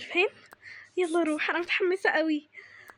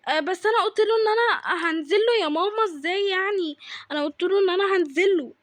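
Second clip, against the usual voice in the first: raised, whiny insistence; insistent teenage-style whine; pleading protest; 3 semitones higher, 4 dB louder than usual. Acted. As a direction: argue back to mum, stretching the words. Protesting to disapproving mother.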